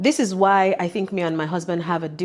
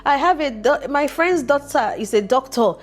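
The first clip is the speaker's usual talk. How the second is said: eager matchmaking aunt; 8 semitones higher, 3 dB louder than usual. Retold or imitated. People introducing their relatives.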